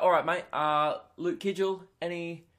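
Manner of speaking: imitating a British doctor, matey greeting; casual British accent, calling in a patient; better British accent. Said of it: "hang on, I'll do it better".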